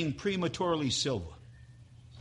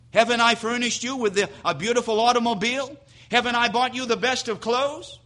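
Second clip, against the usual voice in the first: cold retort building to a loud, higher outraged boast; indignant husband; 6 semitones higher, 4 dB louder than usual. Acted. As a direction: start clipped and fast, swell into shouting. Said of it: "says something like this".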